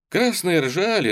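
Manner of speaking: ordinary delivery, nothing marked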